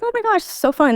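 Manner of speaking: put-on high-pitched gushing as an excited kid; mock childlike delight. Child at the neighbors' house, excited and high-pitched. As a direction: lightly imitate a delighted child visiting.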